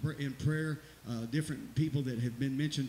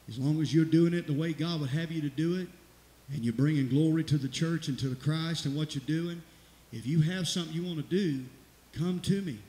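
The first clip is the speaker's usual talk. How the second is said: preaching push; 2 semitones higher, 6 dB louder than usual. Real, not acted. Pastor urging church to come.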